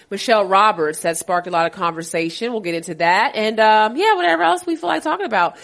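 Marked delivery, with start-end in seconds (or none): 4.0-5.6 laughing. Real, not acted. Laughs while wrapping up list.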